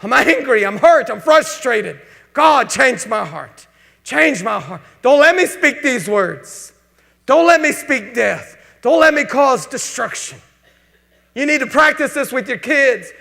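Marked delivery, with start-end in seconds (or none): 0.0-10.4 loud, urgent pleading to God; fervent prayer. Pretend. A hurt spouse alone pleading loudly with God. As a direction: cry out to God to change your heart. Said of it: "where I can say".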